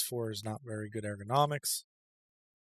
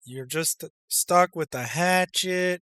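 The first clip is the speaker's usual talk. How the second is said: slow, loud, higher hammed-up Russian accent; slow, booming mock Russian drill-sergeant voice; 6 semitones higher, 10 dB louder, slower than usual. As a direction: play a gruff Russian comrade giving advice. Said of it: "I don't know why I'm doing this accent".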